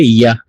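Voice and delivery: ইয়া as "ya", not a Bengali j; Sanskrit pronunciation. Shown as a demonstration. Teacher shows students the letter's sound, ইয়া said as "ya". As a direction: say ইয়া with an opening y glide. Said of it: "এইটা উচ্চারণ কি হবে".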